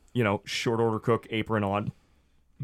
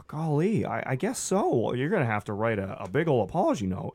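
resigned husband. Acted. Gary resigned.

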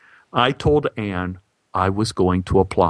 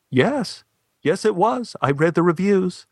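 insistent; 9 semitones higher than usual. Retold or imitated. Man insists, high voice.

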